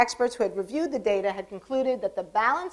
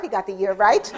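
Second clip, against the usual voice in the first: ordinary delivery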